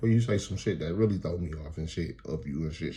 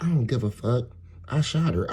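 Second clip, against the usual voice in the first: imitating defiant kid; 5 semitones higher than usual. Acts out defiant five-year-old.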